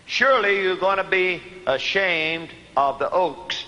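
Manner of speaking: slow, spaced-out scripture reading. Real, not acted. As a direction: take the verse slowly, phrase by phrase. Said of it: "I want to slow down a little".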